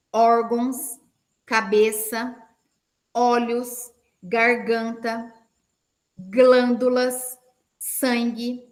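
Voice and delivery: spaced-out prayer declaration; measured, pausing between words; slow with pauses. Shown as a demonstration. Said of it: "Eu vou falar pausadamente". (oração pausada e firme)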